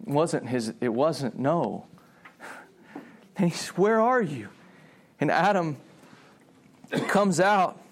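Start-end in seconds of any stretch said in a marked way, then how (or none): 3.7-4.5 higher, aching question; saddened. Acted. God walking in the garden looking for Adam, saddened. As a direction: call out with a touch of hurt. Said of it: "there's a sadness in his voice".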